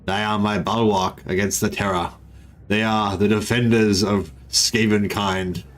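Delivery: lightly voiced solemn warlord speech; space marine voice. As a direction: declaim it like a Skaven commander, understated. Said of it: "whether I was doing a space marine voice or a Skaven voice".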